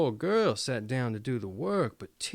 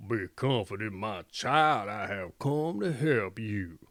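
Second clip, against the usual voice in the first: put-on a lowered old woman's voice, gentle; low old voice; 5 semitones lower than usual. A narrator's reading. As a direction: speak low like a kind old woman comforting. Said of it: "in a low voice which said".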